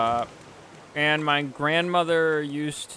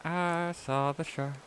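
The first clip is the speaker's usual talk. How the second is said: slow, softer, spooky storyteller hush; mock ominous hush; 3 semitones higher, 6 dB quieter, slower than usual. Joking to viewers about the shark, slow and hushed. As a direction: hush it slowly like a campfire tale. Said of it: "Yes, I just did a joke".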